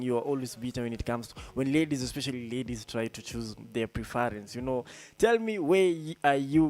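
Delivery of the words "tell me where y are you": calling out. Real, not acted. DJ calls out to listeners.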